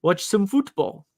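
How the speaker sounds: put-on a clumsy, half-hearted stab at an Irish accent; poor Irish accent. Cohost joking about Guinness before a Dublin game, in a bad Irish accent. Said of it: "that was my very poor attempt at a, uh, an Irish accent".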